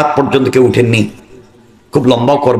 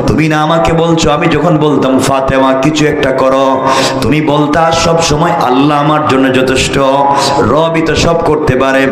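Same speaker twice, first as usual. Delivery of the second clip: melodic preaching. A narrator's reading. Jewish girl promises Fatema she will convert, melodic preaching. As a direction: chant the story, stretching the phrase ends. Melodic sermon narration of the dialogue.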